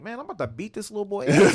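loud, high laughing threat; half-laughing mock fury; mock angry. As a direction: laugh while you threaten. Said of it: "to the point where I'm getting mad".

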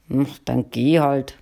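grudging, grumbled reply; grumbling. Acted. Husband grudgingly lets his wife go, grumbling. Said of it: "grummelte er".

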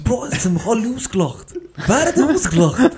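loud, high mock yelling; hammed-up shouted indignation; retold outburst. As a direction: act out a feverish protest at full pitch. Acts out delirious yelling exchange.

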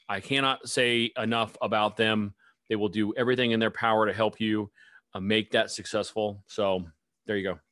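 lightly official sponsor-thanking voice; corporate voice. Real, not acted. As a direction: slip into polite company spokesperson mode. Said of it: "I got my corporate voice on".

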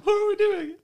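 high, dazed question; spacey confusion. Pretend. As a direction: ask as if lost in a haze. Stoned confusion, higher voice.

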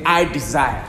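loud lead for the congregation; call to repeat. Shown as a demonstration. Preacher leading the church to repeat after him, loudly. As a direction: give it out loud so they echo.

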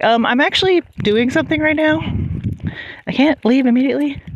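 high, hesitant mock objection; polite protest. Acting out her reply to dog.

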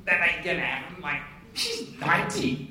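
slow, emphatic mock protest; comic incredulous objection; disbelieving Zacharias. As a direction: play Zacharias balking at the news, drawn out. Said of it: "He goes".

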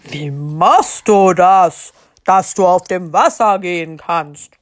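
excited question. Acted. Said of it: "Aufgeregt fragte er".

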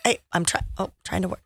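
hesitant, faded imitation of a busy colleague; mock timid interjection. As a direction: murmur it like someone being talked over.

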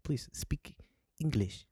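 slow, soft mock French accent. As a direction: put on a halting French accent. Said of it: "I can't do a French accent".

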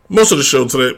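grainy voice wobbling in pitch; unstable grainy voice. Real, not acted. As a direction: voice slipping all over the place. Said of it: "my voice is all over the place".

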